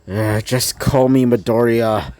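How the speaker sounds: low, sluggish just-woke-up voice; groggy grumbling. A narrator's reading. Just-woken Izuku grumbles, nonchalant.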